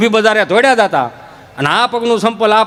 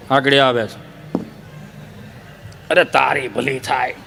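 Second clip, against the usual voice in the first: low grumbling voice; 9 semitones lower, 7 dB quieter than usual. Retold or imitated. Low comic reply.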